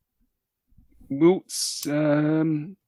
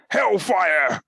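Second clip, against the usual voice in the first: dramatic headline read; 3 semitones higher than usual. Acted. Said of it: "my two personal favourites".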